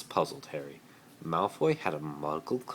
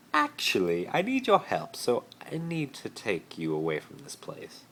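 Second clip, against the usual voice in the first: much higher, loud plea; eager Malfoy; 5 semitones higher, 4 dB louder than usual. Acted. Malfoy asking Harry for help, eager and high. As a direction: ask for help in a rush. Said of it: "Malfoy said".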